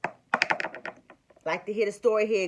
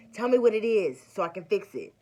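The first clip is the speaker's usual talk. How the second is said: high, loud, anxious pleading; a worried husband begging to know what's wrong; 4 semitones higher, 6 dB louder than usual. Retold or imitated. Husband anxiously pressing her.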